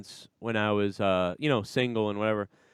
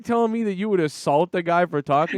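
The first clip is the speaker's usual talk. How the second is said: incredulous disbelief; 7 semitones higher than usual. Real, not acted. Incredulous at friend.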